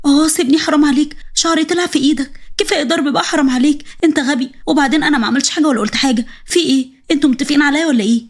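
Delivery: high-pitched pleading wife; pleading in pain. Acted. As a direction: beg him to let go of your hair. Wife being beaten, pleading.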